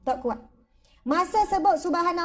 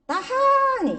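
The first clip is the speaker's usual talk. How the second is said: strained high squeak; 9 semitones higher, 3 dB louder, much slower than usual. Retold or imitated. Straining mid-prayer.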